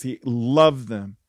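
loved stretched out slowly; stress on loved. Real, not acted. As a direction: lean long on the word loved. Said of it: "can't emphasize that word love enough".

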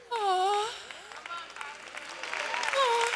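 high, drawn-out "aw"; high-pitched fond cooing; doting aww. Acted. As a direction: coo it high, arms open in welcome. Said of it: "opens up his arms and he goes".

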